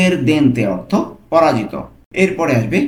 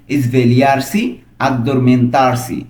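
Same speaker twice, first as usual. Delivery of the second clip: slow model pronunciation; 2 semitones lower, much slower than usual. Shown as a demonstration. Teacher models Italian words slowly.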